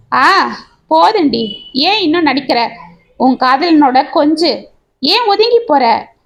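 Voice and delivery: mild mock yell, bitter and slowed; jeering at his wife, understated anger. Husband accusing his wife before her supposed lover, mild mock yell. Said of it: "என்று கத்தினான் சேது".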